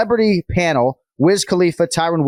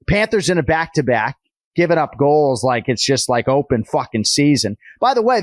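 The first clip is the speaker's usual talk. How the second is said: put-on Boston accent. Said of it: "I'm doing the whole show basically in a Boston accent".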